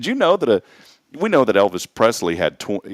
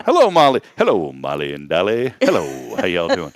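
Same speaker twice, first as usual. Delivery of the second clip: mock Molly greeting; 4 semitones lower than usual. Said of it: "Just kidding".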